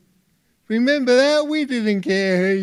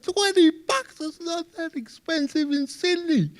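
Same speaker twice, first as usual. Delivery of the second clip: much higher squeal of disbelief, then trailing off softer; shocked disbelief; 9 semitones higher, 6 dB quieter than usual. Retold or imitated. Tourist protesting the café's coffee price, high mock outrage. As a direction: squeak it out like the price just floored you. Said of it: "I went".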